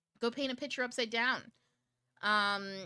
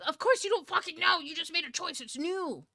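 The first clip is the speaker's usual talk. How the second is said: higher, louder exasperated outburst; exasperated snap at people who ask too much; 9 semitones higher, 7 dB louder than usual. Real, not acted. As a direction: blurt it out, fed up. Exasperated retort to confused people.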